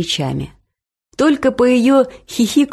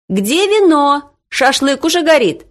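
calling out; 8 semitones higher than usual. A narrator's reading. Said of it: "закричала мама с улицы".

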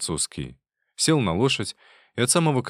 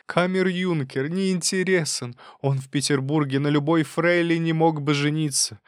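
complaining mother, voice raised, pitch higher; a mother berating her daughter, aggrieved; scolding mother; 7 semitones higher than usual. A narrator's reading. Марья Дмитриевна отчитывает Лизу. (мать упрекает дочь, с обидой, выше голосом)

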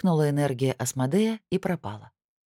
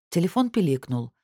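plain reading voice

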